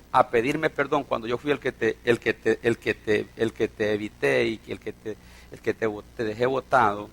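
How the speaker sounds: imitated stumbling over guilty words; faltering confession. Father confessing to the son he abandoned, halting and low. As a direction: keep restarting, struggling to finish the admission.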